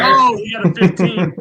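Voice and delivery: high, loud exclamation; excited reaction. Real, not acted. Reacting to the surprise roll result.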